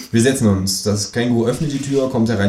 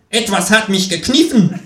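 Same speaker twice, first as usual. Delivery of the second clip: high, louder alarmed voice; startled psychiatrist; 12 semitones higher, 5 dB louder than usual. A narrator's reading. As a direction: complain shocked. Pinched psychiatrist.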